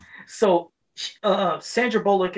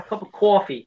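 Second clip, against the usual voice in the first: put-on Boston accent; 3 semitones higher than usual. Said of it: "picked up that accent".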